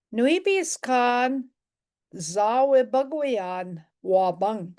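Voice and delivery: Nui biskan zawe bagwayan wabang, each syllable drawn out slowly; slow teaching read. Shown as a demonstration. Teacher reading the sentence to the class, slow and careful. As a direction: spell it out slowly for the learner. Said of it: "we might have said this".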